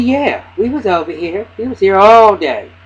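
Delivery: mock insistent mother. Voicing the mother's alibi.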